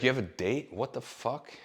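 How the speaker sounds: mock her outrage at the news; shocked disbelief. Roommate hears he has a date, shocked question. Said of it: "she's like".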